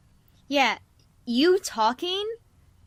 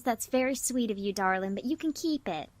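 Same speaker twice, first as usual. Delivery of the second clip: gracious Honey. Acted. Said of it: "and she goes".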